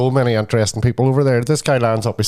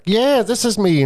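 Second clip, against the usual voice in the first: retold showing-off; 9 semitones higher, slower than usual. Retelling actress showing herself off.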